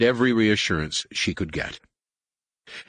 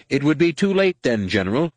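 sudden outburst, higher and louder; burst out; 8 semitones higher, 4 dB louder than usual. A narrator's reading. Kip bursts out at Wedge, leaping up, loud and high. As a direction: blurt it out at full voice. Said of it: "Kip burst out".

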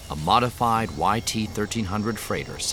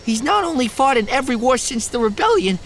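high, loud, slurred tipsy lecture; town drunk; 7 dB louder than usual. Acted. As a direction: lecture like a drunk hero fan. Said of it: "slurring his words".

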